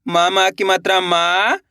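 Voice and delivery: मा spelt out slowly with its मात्रा; sounding out the vowel sign. Shown as a demonstration. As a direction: spell मा with its vowel mark, teacher style. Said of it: "किस तरीके से इनको पढ़ा जाता है". (मात्रा बताते हुए धीरे से)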